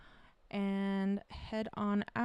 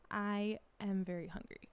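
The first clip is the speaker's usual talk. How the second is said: Spanish accent with a dropped jaw. Shown as a demonstration. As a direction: open every vowel wide, Spanish accent. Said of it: "a Spanish speaker who is learning English will probably say".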